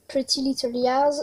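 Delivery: English title with a French accent. Real, not acted. Vlogger naming a film to Google, French-accented English. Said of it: "super mon accent anglais".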